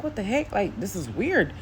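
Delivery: high-pitched, puzzled reaction, slowing on the end; retold bewilderment. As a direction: act out mild alarm at something odd. Retold alarm at feeling breathless.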